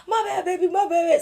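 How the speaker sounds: high, loud giggly outburst; mock apology. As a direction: squeal out a laughing apology. Laughing friends apologising in retold scene.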